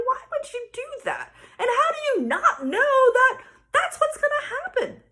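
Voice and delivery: high-pitched incredulous mom rant; exasperated. Retold or imitated. Mom silently questioning her daughter's logic, acted exasperation.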